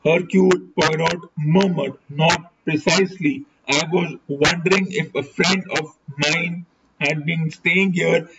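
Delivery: measured audiobook reading; story narration. A narrator's reading. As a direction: read the novel aloud in deliberate, separated phrases. Reads a detective novel aloud.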